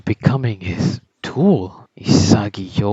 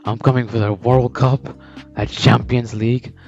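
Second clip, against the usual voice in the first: defiant declaration. Retold or imitated. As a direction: throw the challenge at him. Isagi defies Noah, declares ambition.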